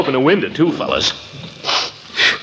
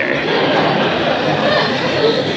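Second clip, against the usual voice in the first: nervous giggle; 12 semitones higher than usual. Acted. Caught out about the club's purpose.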